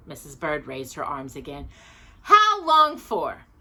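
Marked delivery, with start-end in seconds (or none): 2.2-3.5 very slow, high and loud; alarmed question. A narrator's reading. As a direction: throw up your arms and ask in alarm. Mrs Bird raises arms alarmed.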